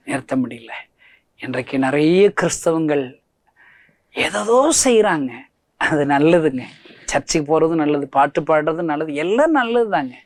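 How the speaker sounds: ordinary talk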